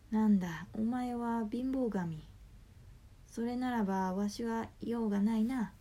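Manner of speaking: put-on huffy old god turning away; creaky wise old man. Fortune god sulks at poverty god.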